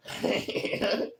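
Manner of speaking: short voiceless laugh; breathy laugh. Real, not acted. After recalling his hand near the saw, a breathy laugh.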